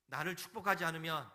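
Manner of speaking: forceful preacher's cry as a wrestler; clinging insistence. Acted. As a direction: hold on and refuse to let go. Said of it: "끝까지 붙잡고서 늘어지는".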